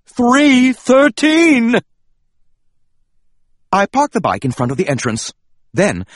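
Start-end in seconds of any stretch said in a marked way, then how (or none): 0.1-1.8 loud, drawn-out call; drawn-out shout of the number; slow called-out announcement. Acted. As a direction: call the room number out slowly. Narrator calls out room number.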